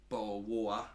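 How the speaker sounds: put-on stereotypical Essex accent; stereotype Essex accent. Shown as a demonstration. Streamer sending up his own county, stereotype Essex accent. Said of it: "That's the stereotype. I'm even doing my own stereotypes".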